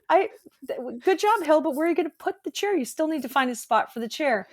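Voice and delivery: mock herself for grabbing the chair; self-mocking inner voice. Laughing at herself while holding a chair. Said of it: "I do the Hillary thing".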